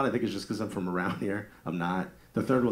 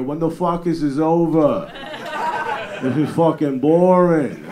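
slow, drawn-out high yell; loud uncle heckling; 5 semitones higher, 9 dB louder, slower than usual. Acted. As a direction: holler a complaint from the back of the room. Uncle heckles from back of funeral.

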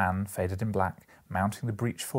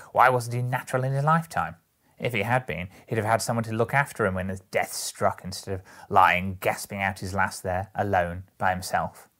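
loud charwoman condemning the dead man; brazen woman, indignant; 6 dB louder than usual. Acted. Woman blames the dead man for dying alone, indignant. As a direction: press each point loudly, with scorn.

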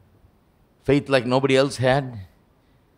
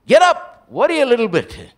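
mock plea; 12 semitones higher, 8 dB louder than usual. Mocking the panicked disciples.

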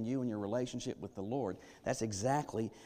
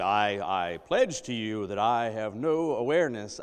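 mock angry oath; 7 dB louder than usual. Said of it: "using foul language to underscore".

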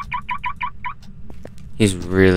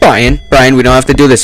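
panicked pleading; 5 dB louder, faster than usual. Real, not acted. Pleading with ghost.

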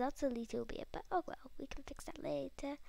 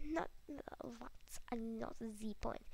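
whispering; 7 dB quieter, much slower than usual. Real, not acted. Aside muttered.

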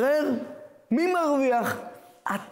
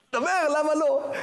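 pressing rabbi; 6 semitones higher than usual. Retold or imitated. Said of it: "rabbi pressing the young man".

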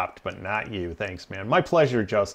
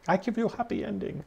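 high, quick, softer mock Asian accent; 8 semitones higher, 9 dB quieter, faster than usual. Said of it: "she's like".

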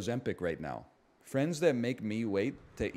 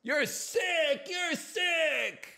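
mock outrage; much slower than usual. Streamer yelling at a viewer in high mock disgust. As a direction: shriek it in fake disgust.

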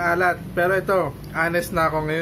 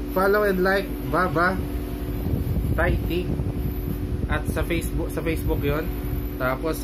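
muffled through cloth covering; speaking behind neck gaiter; through a face mask; 3 semitones higher than usual. Real, not acted. Seen 1: Cloth gaiter covers nose and mouth throughout; reference frames unmasked.

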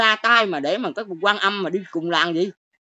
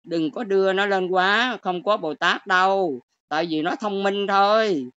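calm quoted monk; slower than usual. Retold or imitated. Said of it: "ông sư cũng nói vậy nè".

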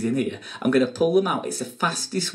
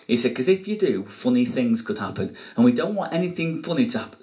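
put-on kids party magician.

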